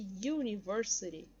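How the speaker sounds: UNIVERSITY starting with a Y glide, "you-"; slow, clear "yu" opening on UNIVERSITY; Y sound. Shown as a demonstration. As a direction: begin UNIVERSITY with a consonant Y. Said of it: "vai ter som de Y".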